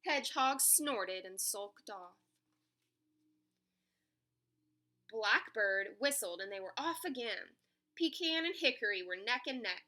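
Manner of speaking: animated picture-book reading; story narration. A narrator's reading. Narrator telling children about an animal race, story narration. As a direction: tell it to young children.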